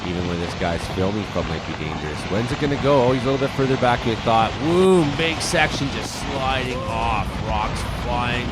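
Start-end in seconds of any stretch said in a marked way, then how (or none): 4.6-8.5 excited boom. Real, not acted. Landslide falls.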